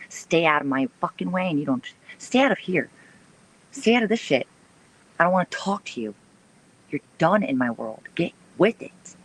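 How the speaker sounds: heated high rant; angry. Real, not acted. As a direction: tell them off hard. Higher ranting.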